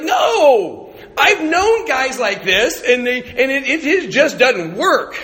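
high, loud, exasperated objection; loud protest. Retold or imitated. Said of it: "we're like".

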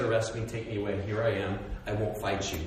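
low, subdued, unresisting voice; understated, low and submissive; calm surrender. Acted. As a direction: give yourself up quietly. Jesus surrendering to arrest, acted.

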